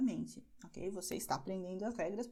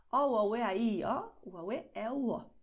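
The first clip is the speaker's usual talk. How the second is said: vowel sentence run together briskly; string the vowels together without stopping; quick demonstration; 5 dB louder than usual. Shown as a demonstration. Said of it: "Eu falei bem rapidinho". (vogais ditas bem rapidinho)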